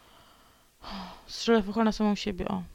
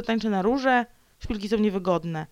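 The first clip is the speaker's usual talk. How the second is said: ordinary talk, nothing marked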